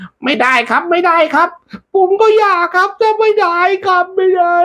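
very high squeaky pleading voice; squeaky refusal. Acted. Messenger turning down the heavenly fruit, very high pleading.

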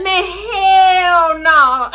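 high, slow, whining protest; imitating boyfriend's whiny denial; mock whiny denial. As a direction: whine it out, drawn high. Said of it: "And he was like".

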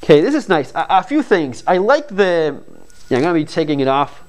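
muffled behind cloth mask; speaking with mouth covered; through a face mask. Real, not acted. Seen 2: Black mask covers mouth and nose throughout; hands at the straps.

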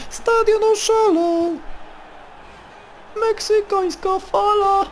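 very high put-on voice; hammed-up high-pitched celebration; mock crowd frenzy. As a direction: squeal it like a crowd gone wild. Mock crowd frenzy after trick.

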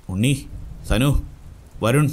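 calling names out with a rising pitch. A narrator's reading. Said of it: "Muneer ഉറക്കെ വിളിച്ചു". (ഉറക്കെ പേരെടുത്ത് വിളിക്കുന്നതുപോലെ)

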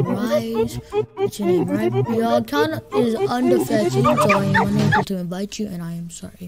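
lightly posh, formal refusal. Real, not acted. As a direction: slip into a slightly posh accent. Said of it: "I'm speaking so posh".

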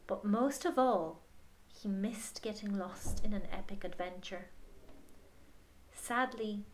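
gentle picture-book reading voice; story narration. Acted. Reading the picture book aloud to a child, gentle storytelling. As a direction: read it to children at bedtime.

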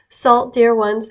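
slow, weighted SALT; deliberate, drawn-out delivery; slowed-down emphasis. Real, not acted. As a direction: draw out the word salt as you read. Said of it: "and slows down and gets louder sometimes".

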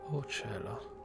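usual speaking voice

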